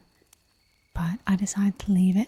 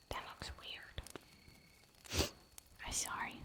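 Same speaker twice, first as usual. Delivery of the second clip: much softer, very slow whisper of "That looks weird"; fainter slow whisper; 18 dB quieter, much slower than usual. Shown as a demonstration. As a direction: breathe "That looks weird" out barely audible and drawn out.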